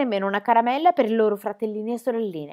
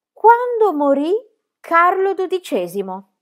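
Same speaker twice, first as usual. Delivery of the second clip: stern teacher; 10 semitones higher, 9 dB louder, slower than usual. Acted. Teacher sets history question.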